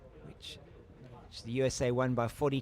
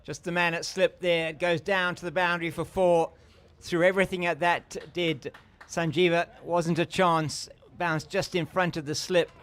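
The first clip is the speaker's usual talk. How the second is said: raised, animated boundary call; excited commentary; 4 semitones higher, 3 dB louder than usual. Real, not acted. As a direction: lift the voice calling the edge for four. Live call of an edge to boundary.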